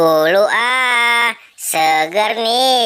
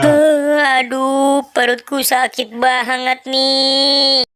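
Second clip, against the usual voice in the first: hurting Emon moaning; 5 semitones higher than usual. Acted. Emon moans with stomach ache.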